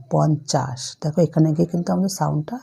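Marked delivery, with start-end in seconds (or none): 0.1-0.8 পঞ্চাশ let fall gently on its last consonant; soft ending. Shown as a demonstration. Teacher showing children that পঞ্চাশ ends softly. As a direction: say পঞ্চাশ with a quiet closed ending, no vowel after শ. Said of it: "কিন্তু এটা আস্তে sound হচ্ছে".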